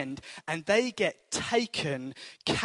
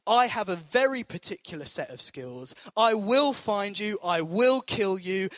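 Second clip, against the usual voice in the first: divine declaration. Acted. God speaks to the captors.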